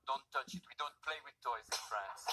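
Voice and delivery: French woman. Retold or imitated. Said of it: "the French woman said".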